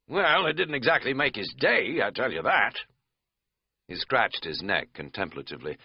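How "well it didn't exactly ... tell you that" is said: a hint of a country host; easy backwoods storyteller; lightly voiced innkeeper. Innkeeper answering.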